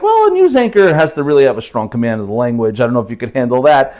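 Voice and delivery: lightly voiced female chatbot; a hint of a doubting AI assistant; ChatGPT. Speaker quotes the AI on news anchor standards, lightly voiced woman. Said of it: "like, a woman's voice in Chat G P T".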